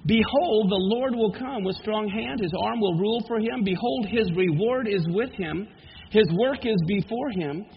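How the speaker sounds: measured, solemn Bible reading; scripture reading. Acted. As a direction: read the prophecy with gravity. Reads Isaiah forty.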